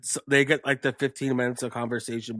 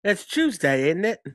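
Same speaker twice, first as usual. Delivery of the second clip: higher, jokey Cockney tag question; mock Cockney; 6 semitones higher than usual. Friends trading bad accents, mock Cockney. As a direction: toss it out in silly Cockney. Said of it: "I like Cockney".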